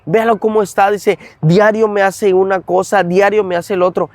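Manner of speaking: exasperated mother. Retold or imitated. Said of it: "Mi mamá".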